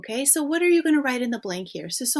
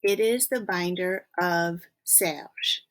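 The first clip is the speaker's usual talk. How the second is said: slow literal translation; 2 semitones lower, slower than usual. Shown as a demonstration.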